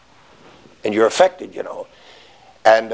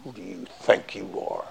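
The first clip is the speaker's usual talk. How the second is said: wife's retort; 6 semitones lower than usual. Retold or imitated. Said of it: "she said".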